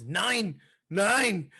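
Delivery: high, loud entrance chant; retold yell. Imitating Vinicius as he comes out, high loud yell. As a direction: call out each word like a wrestler hyping the crowd.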